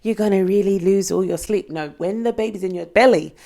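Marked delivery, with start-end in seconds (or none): 0.0-1.7 high sing-song imitation of people giving advice; mock know-it-all advice. To viewers, imitating people who warn about baby sleep, high mock sing-song. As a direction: parrot the advice in a lilting mock voice. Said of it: "And people say".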